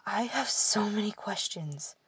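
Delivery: breathless hushed whisper. A narrator's reading. Brother whispering in shock at the talking pixie. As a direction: whisper it in stunned awe. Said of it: "Edwin whispered".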